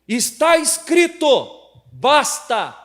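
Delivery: loud, high, slow declaration. Shown as a demonstration. Pastor retells confronting a church member, loudly. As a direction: lay down the law. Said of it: "Nessa energia aqui".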